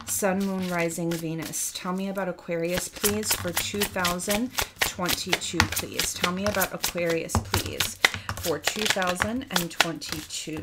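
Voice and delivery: a chanted plea, repeated and insistent; invoking Spirit. Acted. A reader asks Spirit about Aquarius, chanting the plea. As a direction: call on the spirits as you shuffle. Calls on Spirit while shuffling cards.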